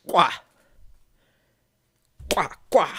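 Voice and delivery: sharp loud "kwa" thuds copying a tail hitting the ground; imitated tail thumps. Guide recalling the lion's warning, loud clipped thumps. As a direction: smack it out like a lion's tail on dirt. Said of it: "and then I heard".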